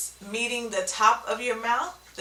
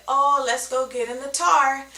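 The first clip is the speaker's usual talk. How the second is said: imitating a child; 5 semitones higher, 5 dB louder than usual. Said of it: "you may hear your kids say".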